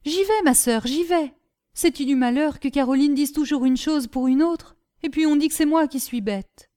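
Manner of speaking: simple lad muttering as he runs; lightly voiced Gribouille. Gribouille answers and grumbles. (Gribouille naïf qui ronchonne)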